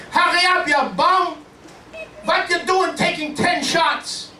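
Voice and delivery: high-pitched mock Jewish-accented heckling; impatient Jewish golfers. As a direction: heckle the slow player in a hammed-up Jewish accent. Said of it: "the Jewish folks behind me going".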